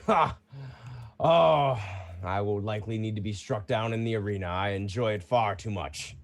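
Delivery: lightly voiced proud fighter, mostly in own voice; a hint of a seasoned champion; casual veteran fighter answering; Bruno the champion.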